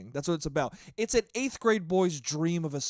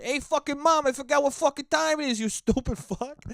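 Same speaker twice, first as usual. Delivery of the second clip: rude to mom; 10 semitones higher, 6 dB louder than usual. Shown as a demonstration. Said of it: "I didn't say".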